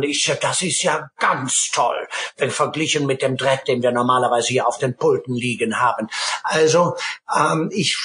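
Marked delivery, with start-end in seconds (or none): 0.0-6.1 quoted musician. Retold or imitated. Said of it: "sagte der Mann".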